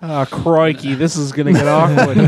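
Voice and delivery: put-on joking British accent with a laugh; mock-British dismay, half laughing. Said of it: "like, British accents".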